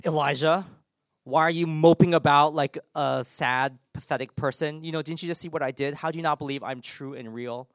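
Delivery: mildly exasperated telling-off; a touch of reproach in pointed questions; mock scolding. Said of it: "just scold him and say".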